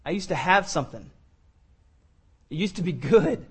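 low, slow, soft and lost; weary prodigal son. Acted. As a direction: mutter it like a broken man at the pig trough. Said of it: "He's like".

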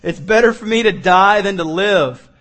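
loud, emphatic quoted plea; pleading to die. Retold or imitated. Jonah begging God to die, loud plea. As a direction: declare it with force. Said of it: "he asked that he might die".

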